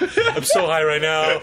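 stoner. Acted. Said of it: "That was them high".

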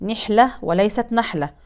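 نحلة with kasra on the nun, then the wrong fatha form; right vs wrong vowel. Shown as a demonstration. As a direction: contrast nihla with nahla. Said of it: "النون مكسورة وليست مفتوحة". (كسر النون)

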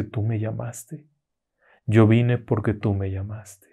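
slow, soft, menacing ghost; eerie creature voice. Acted. Corpse woman reminding the girl she summoned her, slow and soft. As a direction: breathe the words slowly like a corpse.

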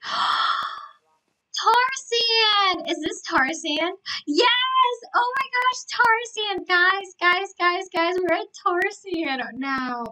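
high, loud excited squeal; too excited. Real, not acted. Streamer spots Tar Sand and calls to viewers, too excited. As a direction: burst out with thrilled, high-pitched energy. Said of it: "I got, I got too excited".

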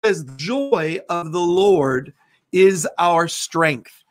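measured prayer declarations, slowed on scripture. Acted. Pastor releasing joy over the congregation in prayer. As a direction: proclaim it like a closing prayer.

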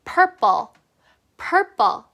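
"Purple" ending with the tongue laid gently on the front teeth. Shown as a demonstration. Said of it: "앞니 위에다가 살포시 혓바닥을 내려놔주세요".

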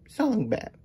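whispered with no voice. Pretend. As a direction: breathe the two words out as a secret. Whispered word game.

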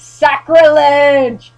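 slow, loud, drawn-out Sacrilege; hammed-up horrified cry; mock outrage.

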